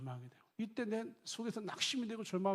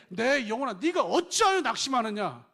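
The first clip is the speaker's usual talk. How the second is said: loud, higher preached self-rebuke; preaching to oneself; 6 semitones higher, 13 dB louder than usual. Shown as a demonstration. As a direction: call out to your own soul with force. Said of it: "이게 아담이 하나님에게 기도하는 게 아니에요".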